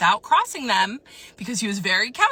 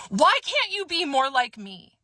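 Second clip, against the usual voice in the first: higher-pitched mock outburst; retold exasperated blurt; imitated blurt; 5 semitones higher than usual. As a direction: blurt it out, imitating his complaint. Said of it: "He blurts out".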